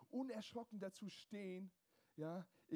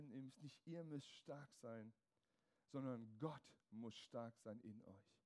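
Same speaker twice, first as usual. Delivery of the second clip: slow, quiet emphasis; 7 semitones lower, 5 dB quieter, slower than usual. Acted. Preacher stresses God's strength.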